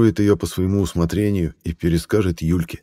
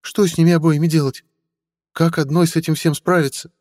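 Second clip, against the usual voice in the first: put-on higher, pleading older woman; mother's voice; 10 semitones higher, 3 dB louder than usual. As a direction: coax him like a worried mother. Mother complains.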